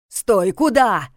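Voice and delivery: slow loud call after someone. Acted. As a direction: call him back sharply. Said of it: "окликнул Карпатский".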